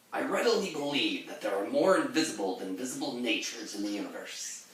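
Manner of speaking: lightly voiced tough pirate. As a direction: read it as a sea captain. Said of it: "my natural pirate voice".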